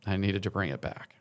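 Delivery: fighting back real tears, halting between phrases; choked up. Real, not acted. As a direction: hold back tears, let long pauses fall. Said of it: "much like me right now".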